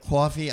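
coffee with a long open aw, Jersey style; coffee in a Jersey accent. Shown as a demonstration. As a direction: say coffee as kaw-fee, Jersey vowel. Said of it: "it's the only way to say it".

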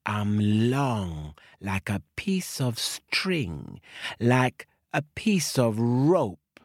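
slow, drawn-out snake; a slow storyteller snake. Acted. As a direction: stretch every word like a long snake. Snake describes itself slowly.

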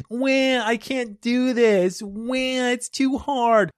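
high, slow whimpering complaint; whiny Frodo. Retold or imitated. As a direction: whine like a hobbit who wants to quit. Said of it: "I am kind of like a whiny little bitch".

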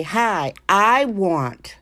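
hammed-up stammering, drawn-out demand; a stranger demanding a favour without using her name, mock stammer; mocking a rude stranger asking a favour. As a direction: play a tongue-tied rude stranger who only wants something, slowed and halting. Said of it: "and you just say".

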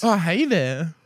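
lightly camp greeting; a hint of put-on camp flirting; put-on gay voice. Man opening a bar chat-up, lightly put-on gay voice. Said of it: "Can I, can I do a gay voice or no?".

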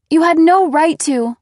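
loud furious retort; shaking with anger. A narrator's reading. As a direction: spit it out, shaking. Daughter furious.

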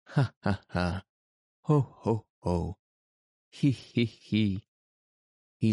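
booming ha ha, ho ho, he he; uproarious laughter. A narrator's reading. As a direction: laugh in every key. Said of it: "burst into an uproarious fit of laughter".

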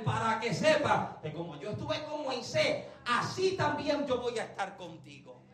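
cierre solemne y suave; promesa en voz baja. Acted. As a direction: baja el volumen y asegúrale tu compañía. Promise closed in hushed voice. (promesa serena y contenida)

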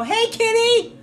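very high, loud sing-song call; calling a kitty. Retold or imitated. Wife calling an imaginary cat, high sing-song. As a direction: coo to a cat that isn't there.

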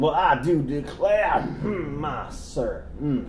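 genteel Southern gentleman; classy southern drawl; southern accent. Pretend. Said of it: "my southern voice".

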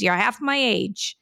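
put-on slow, unconvincing Russian accent; attempted Russian accent. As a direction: put him down with a slight, imitated Russian accent. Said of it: "That's a Russian accent?".

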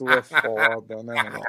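trying not to laugh; stifled giggles. Real, not acted. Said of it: "Para de rir, Rafa".

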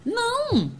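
um NÃO bem agudo e forte; não enfático. Real, not acted. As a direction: corte a ideia com um não alto. Negação enfática em palestra. (negação forte e aguda)

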